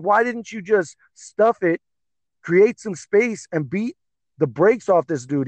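high-pitched exasperated question; upset, retold. Upset fan asking the fighter why, retold exasperation. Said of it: "I was, like, so upset".

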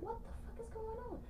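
tiny high-pitched, hushed disbelief; hushed high aside; baffled private aside. Retold or imitated. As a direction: squeak it softly to yourself, baffled. Baffled thoughts while driving.

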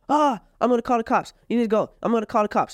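hammed-up girlfriend yelling about cops; mock panicked girlfriend. Mimicking girlfriend threatening cops.

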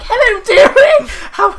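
put-on high sing-song old auntie voice; elderly singsong. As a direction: coo it like a doting old auntie. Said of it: "and he's like".

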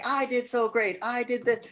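high, loud self-praising voice; mock bragging. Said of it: "And he's like".

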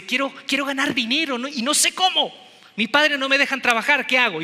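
put-on small kid begging for help; lightly voiced little boy. Little boy asking his older sister for help, lightly pleading.

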